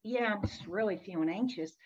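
subdued, low-key admission of worry; understated and composed; calm voice. Retold or imitated. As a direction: quote a client calmly admitting anxiety. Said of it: "started in a pretty calm voice".

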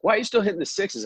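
high-pitched imitation of puzzlement; retold incredulous question. Wedge maker questioning a friend's old clubs, mock incredulous.

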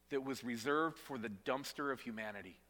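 usual speaking voice

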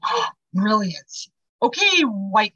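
mock-impressed, drawn-out sarcasm; sarcastic. Scoffing at friend's idea of asking White Feather, sarcastic. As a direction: draw it out with heavy sarcasm. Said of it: "very sarcastic".

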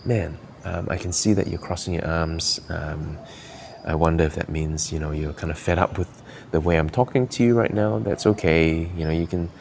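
put-on gentle and warm toward a teen who likes you; liking the listener. Shown as a demonstration. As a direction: speak to the teen like you like him. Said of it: "It's different when I say it like this".

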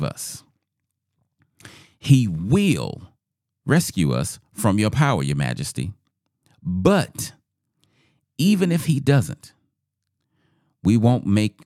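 deliberate, emphatic declamation with weighty pauses; scripture reading. A narrator's reading. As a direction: proclaim the defiant reply from scripture. Reads scripture aloud to congregation.

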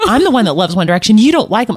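imitating an indignant daughter; quick mock-aggrieved accusation, rising in pitch; upset child. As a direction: argue like a wronged kid. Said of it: "oh, she was upset".

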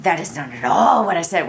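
a mild defensive retort, imitated. Imitating a defensive spouse who rejects what was said, mildly. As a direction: lightly act out a husband brushing off his wife's words. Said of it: "that defensive".

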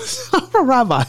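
squeaky laughing echo; laughing repeat. Real, not acted. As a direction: repeat the joke while cracking up. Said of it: "somebody asked if you're the son of a preacher".

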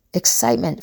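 light up on the word Excitement; excited. Shown as a demonstration. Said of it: "excitement about something".

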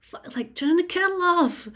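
high, loud retold yell; exasperated. Labouring woman to partner about the loud kettle, exasperated. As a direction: burst out, fed up with the racket.

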